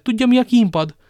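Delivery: shrinking from the very thought; terrified. Acted. Terrified husband describes torture. (rémült, magas hangú kérdés)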